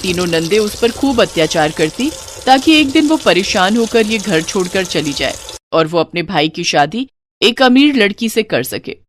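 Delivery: plain reading voice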